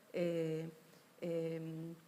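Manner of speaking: ordinary delivery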